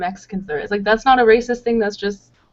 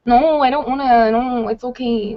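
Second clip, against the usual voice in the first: put-on whiny Miami accent; 3 semitones higher than usual. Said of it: "it's very whiny".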